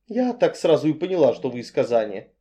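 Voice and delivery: rattling on. Acted. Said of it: "зачастила я".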